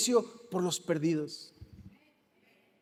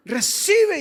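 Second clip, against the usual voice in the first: mock shout; 9 semitones higher, 8 dB louder than usual. Disciples shouting at possessed.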